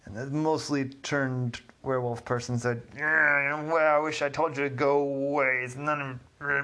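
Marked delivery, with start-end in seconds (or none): 2.9-6.6 angry shout. Acted. Werewolf man yells at Ollie.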